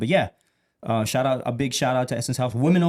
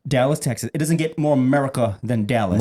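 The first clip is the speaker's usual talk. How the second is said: commercial voice. Acted. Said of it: "freestyle commercial real quick".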